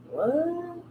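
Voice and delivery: high, breathy mock shock; a sudden startled squeak; startled what. Teacher voicing a student's startled inner reaction, high squeak. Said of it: "The things that you go".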